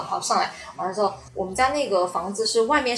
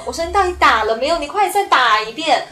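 higher, louder urgent demand; anxious pressing; 5 semitones higher, 4 dB louder than usual. Retold or imitated. Trapped woman urging the neighbour to call again, anxious and loud. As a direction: push him hard to call again.

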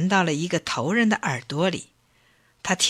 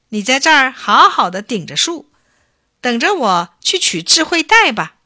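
loud, high, lively send-off; trickster's instructions; 6 semitones higher, 6 dB louder than usual. A narrator's reading. Bacang leaves the chief holding the tree, instructing. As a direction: instruct him brightly, voice raised.

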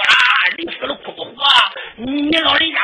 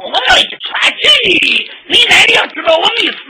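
激动嚷嚷; 8 semitones higher, 7 dB louder than usual. Acted. 老爷激动争辩.

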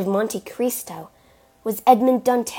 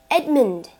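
higher, louder cry of a name; raised-voice shout, falling at the end; desperate call; 5 semitones higher, 6 dB louder than usual. A narrator's reading. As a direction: call out urgently to stop someone. Mercedes calls out to the Count.

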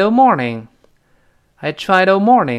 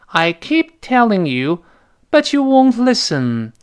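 exasperated complaint; 6 semitones higher, slower than usual. Acted. Acted example of exasperated complaint.

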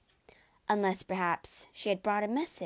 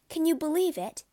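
amazed; 8 semitones higher, 6 dB louder than usual. A narrator's reading. Jane marvelling at night.

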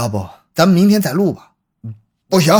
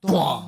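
thud sound; 5 dB quieter than usual. Acted. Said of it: "一个人影从楼上坠下".

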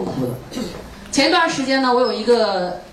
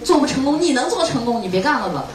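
higher, needling mock naysayer, falling at the end; mock nitpicking; 3 semitones higher than usual. Speaker imitates people who find fault with students, mock nitpicking. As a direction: imitate someone picking holes to discourage. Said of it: "有的人还会挑刺儿".

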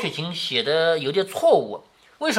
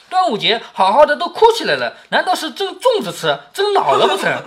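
higher-pitched tease breaking into laughter; amused teasing; 8 semitones higher, 4 dB louder than usual. A narrator's reading. Lin Daiyu teases the weeping pair, laughing. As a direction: tease them, letting a laugh creep in. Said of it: "她就笑了，".

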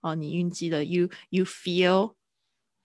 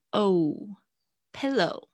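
normal talking voice

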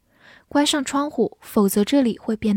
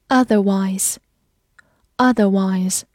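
otherwise said slowly twice; drawn out for learners; slow review read; 3 semitones lower, much slower than usual. Shown as a demonstration. Teacher reviewing words slowly, drawn out. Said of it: "复习一下今天学过的单词".

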